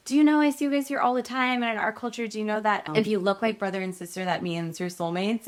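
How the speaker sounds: chirpy waitress who thinks she knows best; gushing waitress. Retold or imitated. Waitress tells the couple they are soulmates, gushing.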